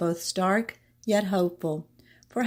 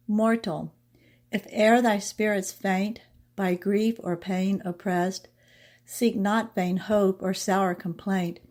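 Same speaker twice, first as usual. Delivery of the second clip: slow, measured verse reading; poem recitation. Acted. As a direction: recite the verse line by line, unhurried. Recites the poem after introducing it.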